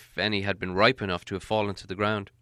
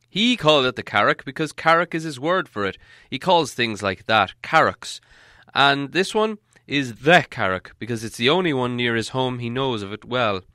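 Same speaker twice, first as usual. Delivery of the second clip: put-on raised, grand old wizard voice; Gandalf voice; 3 semitones higher, 5 dB louder than usual. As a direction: speak as the wise wizard, higher and fuller. Wizard explains to hobbit.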